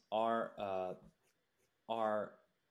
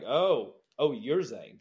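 mock recognition; 2 semitones higher, 8 dB louder, slower than usual. Other inspectors recognize him.

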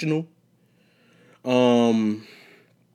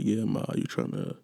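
soft, smooth mock seduction line; softer mock sweet talk to a woman; 5 dB quieter than usual. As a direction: coo it like a lady's man. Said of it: "this real sweet talking".

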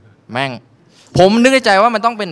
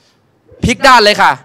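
very slow, sing-song masseuse voice; 3 semitones higher, 7 dB louder, much slower than usual. Retold or imitated. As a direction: drag it out sweetly. Masseuse slow calm instruction.

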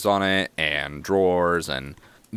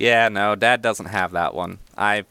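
put-on halfling child; 2 semitones higher, 3 dB louder than usual. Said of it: "oldest halfling child".

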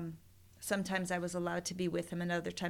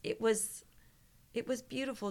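whisper; 4 dB quieter than usual. Retold or imitated. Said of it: "he's like".

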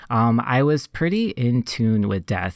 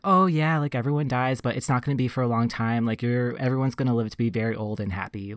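soothing parent; 4 dB quieter, faster than usual. Retold or imitated. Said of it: "they did the whole parent thing".

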